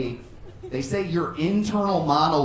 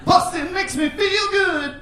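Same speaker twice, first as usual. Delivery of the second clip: much higher slow cry; mock shout; 13 semitones higher, 3 dB louder, slower than usual. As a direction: bark it out proudly. Mock macho exclamation.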